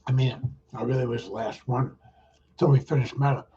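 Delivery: talking while chewing; mouth full. Real, not acted. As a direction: speak through a mouthful of cookie. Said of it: "I don't like talking my mouth full".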